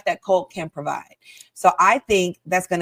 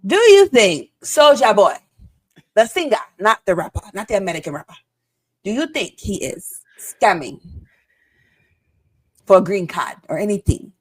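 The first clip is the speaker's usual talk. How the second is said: bad African accent impression. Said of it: "It's a terrible African accent".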